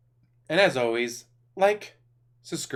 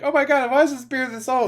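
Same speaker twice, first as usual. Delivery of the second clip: imitated shocked friend; 11 semitones higher, 5 dB louder than usual.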